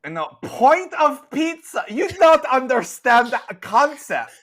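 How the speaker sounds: high, loud exasperated nun; nun yelling. Acted. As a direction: berate the customer in broken English. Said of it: "this nun just absolutely yell".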